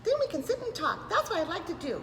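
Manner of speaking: a lightly voiced friend; character voice. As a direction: reread as the character. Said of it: "I had to back up and reread that".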